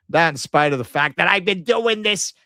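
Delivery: lightly voiced urban Jewish caricature. Shown as a demonstration. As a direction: slip into a mild caricature voice, slowing down. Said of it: "this urban Jew caricature".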